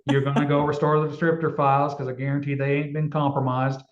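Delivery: put-on a mild Southern accent, not overdone. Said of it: "I'm trying to do a Southern accent".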